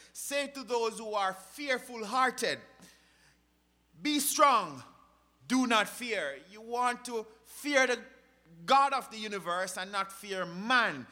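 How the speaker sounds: loud, emphatic scripture exhortation; forceful preaching. Acted. Preacher exhorting the fearful hearted, forceful preaching. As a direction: urge the congregation with weighty phrases.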